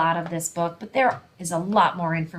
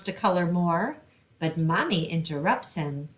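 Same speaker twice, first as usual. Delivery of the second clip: storytime reading. Acted. Librarian reading a picture book to children, lively storytime voice. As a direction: read it brightly to a room of kids.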